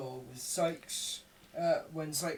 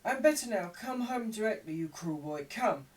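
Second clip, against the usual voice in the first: high scolding voice; Nancy playing the anxious sister; young woman; 7 semitones higher, 4 dB louder than usual. A narrator's reading. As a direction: chide the runaway boy, much higher. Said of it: "grasping Oliver's hand".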